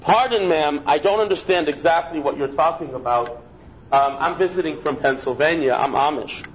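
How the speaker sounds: a hint of a polite Amish visitor; calm reply. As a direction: answer her innocently, unbothered. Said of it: "he turns and looks at her and says".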